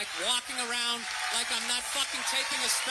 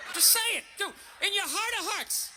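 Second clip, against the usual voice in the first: insistent shout; 7 semitones higher than usual. Real, not acted. Insistent rising rant.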